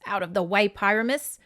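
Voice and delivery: mild British great-aunt scolding; scolding, British accent. Acted. Great aunt scolding the cat underfoot, bad British accent. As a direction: shoo a pet in a hammed-up British voice. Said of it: "she scolded the gray cat".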